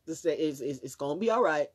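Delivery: a lightly voiced reassuring friend; calming words. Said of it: "he's saying".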